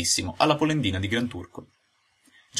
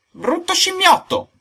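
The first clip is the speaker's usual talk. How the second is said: very high, slow, loud shriek; drawn-out high-pitched outburst; shouted insult; 7 dB louder, slower than usual. Acted. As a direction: draw out the insult in fury. Trading insults.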